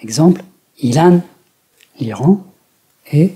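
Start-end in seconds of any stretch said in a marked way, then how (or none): 0.8-1.2 "Iran" as a careful Japanese word with its pitch accent; original accented form. Shown as a demonstration. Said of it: "même s'il était accentué avant".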